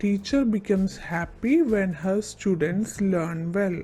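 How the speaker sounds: put-on very slow, word by word, for children to copy; slow dictation. Shown as a demonstration. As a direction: spell it out slowly for the class. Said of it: "അതിൻ്റെ ഉത്തരങ്ങളൊന്ന് നോക്കാം".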